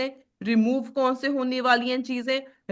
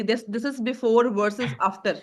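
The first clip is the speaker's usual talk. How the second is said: slow dictation; much slower than usual. Shown as a demonstration. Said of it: "teacher repeats the term for students".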